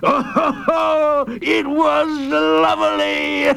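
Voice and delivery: high, laughing glee; delighted chuckle. A narrator's reading. Warden laughing at memories of pelted fish. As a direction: chuckle with pleasure.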